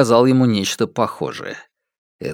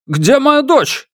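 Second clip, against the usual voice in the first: higher, furious demand; angry; 13 semitones higher, 4 dB louder, much slower than usual. Acted. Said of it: "Мадунчень рассердился".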